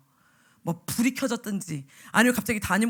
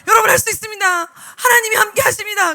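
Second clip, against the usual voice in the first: fervent shout; 9 semitones higher, 11 dB louder than usual. Retold or imitated. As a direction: preach it at full force to an empty room. Shouting alone while muted. (음소거된 줌에서 혼자 목청껏 외치는 설교)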